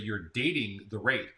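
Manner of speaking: measured, distinct words; careful and deliberate. Real, not acted. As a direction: repeat the slogan with care. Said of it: "You have to say that slowly".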